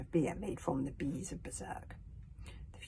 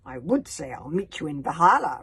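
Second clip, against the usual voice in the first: through gritted teeth; 9 dB louder than usual. Acted. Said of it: "replied Hiccup through gritted teeth".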